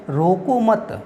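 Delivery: रोको मत together, ending in a break; मत joined to रोको. Shown as a demonstration. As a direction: run रोको straight into मत, then stop. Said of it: "रोको मत के बाद ब्राह्म चिन्ह".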